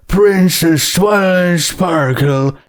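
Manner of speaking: a judge addressing the accused from the bench; stern judge. Acted. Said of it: "he said".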